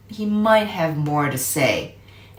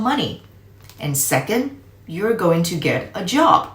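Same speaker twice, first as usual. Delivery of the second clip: Uncle Jake lecturing; 2 semitones higher than usual. Acted. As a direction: explain to the kid like a firm but kind uncle. Uncle sets out plan.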